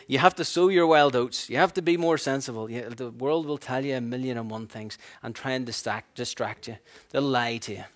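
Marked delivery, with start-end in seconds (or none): 0.1-2.7 world's nagging voice. Acted. Voicing the world's lies.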